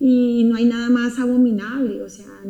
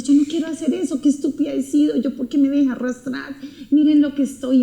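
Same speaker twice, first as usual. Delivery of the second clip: a touch higher, mild tearful lament; retold crying; 3 semitones higher than usual. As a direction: mildly recall crying in despair. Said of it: "y yo lloraba y yo decía". (lamento lloroso suave)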